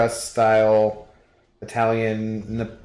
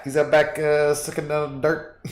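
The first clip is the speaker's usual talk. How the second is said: Letterkenny voice; 4 semitones higher than usual. Acted. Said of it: "you're a Letterkenny fan".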